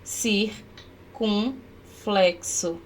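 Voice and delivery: slow teacher naming of circunflexo; slow and deliberate. Shown as a demonstration. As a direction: spell out circunflexo syllable by syllable. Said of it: "ó, que é o chapeuzinho".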